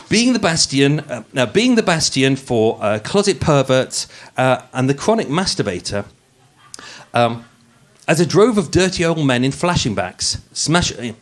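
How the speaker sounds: polished, posh narrator read; posh podcast voice. Acted. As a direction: read it like a true-crime podcast host putting on airs. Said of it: "the podcast voice".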